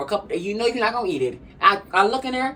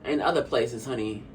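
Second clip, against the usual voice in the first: sassy punchline; 5 dB quieter, much slower than usual. Shown as a demonstration. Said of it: "I'ma say it anyway".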